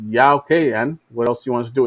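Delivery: lightly voiced weary kid; sarcastic shrug. China stand mocks USA demands, fast sarcasm. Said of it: "And China's like".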